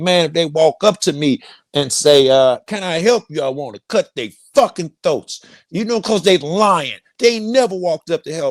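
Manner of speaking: worked-up, agitated outburst. Retelling what was said while getting riled up: imitating own riled-up rant. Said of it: "I'm getting riled up".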